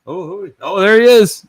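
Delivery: high Cajun exclamation; high Cajun cry; Cajun impression. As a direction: greet the guest Cajun style. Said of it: "peanut butter in your mouth".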